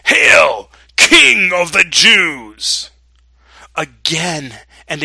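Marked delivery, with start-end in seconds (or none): 0.1-2.9 very loud, drawn-out mock salute; calling out. A narrator's reading. Soldiers mock Jesus in his robe, calling out loudly. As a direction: call it out like soldiers hailing a king. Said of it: "began to call out".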